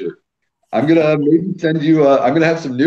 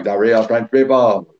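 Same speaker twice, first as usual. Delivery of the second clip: mock French accent. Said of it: "just by just doing that accent".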